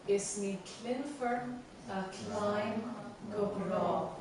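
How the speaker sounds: "Is ní clinfar a chlein go brá" with beats on clinfar, chlein, brá; marked stresses. Shown as a demonstration. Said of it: "and the stresses are".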